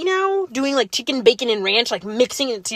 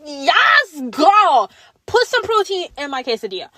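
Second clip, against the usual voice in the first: excited cheer; 3 semitones higher than usual. Retold or imitated. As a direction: cheer like a hype friend. Cheering for food.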